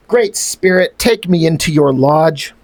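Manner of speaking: a hammed-up solemn plea to the Great Spirit; solemn dramatic reading. Reading the comic's dying-warrior line as a grave plea. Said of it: "it reads like cliche stuff".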